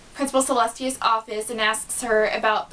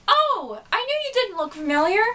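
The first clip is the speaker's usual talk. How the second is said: much higher, fast hyper chatter; bubbly Pinkie; 9 semitones higher than usual. Retold or imitated. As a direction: bounce through it breathlessly. Crazy Pinkie Pie greets Twilight.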